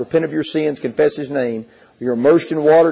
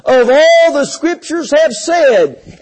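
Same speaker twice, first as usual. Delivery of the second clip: higher, slow, lightly voiced cry from the cross; Jesus crying out; 7 semitones higher, 3 dB louder, slower than usual. Preacher voices Jesus on the cross, a mild slow cry. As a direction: cry it out like a dying man. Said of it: "crying out and saying".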